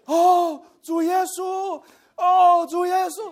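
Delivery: high fervent calls of Lord Jesus; high ringing cry of devotion; calling out. Retold or imitated. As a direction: call out like the adults in the meeting.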